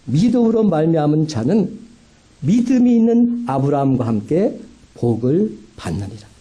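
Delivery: 차분하게 성경 구절을 읽듯; 구절을 또박또박 낭독하듯. Acted. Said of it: "갈라디아서 삼 장 구 절은 이렇게 말합니다". (성경 말씀 낭독하는 어조)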